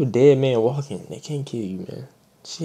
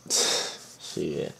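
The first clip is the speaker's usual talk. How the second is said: whispered shit; 9 semitones lower, 10 dB quieter than usual. Real, not acted. Muttered reaction after the story.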